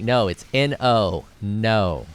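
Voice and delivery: firm, slow N O, no R in NO; correcting pronunciation. Retold or imitated. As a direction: spell out N O slowly and loudly, then NO. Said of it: "One syllable. There's no R's".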